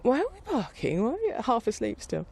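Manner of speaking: high, puzzled half-asleep dog; sleepy dog voice. Retold or imitated. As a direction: voice a confused dog just woken. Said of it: "looking at her going".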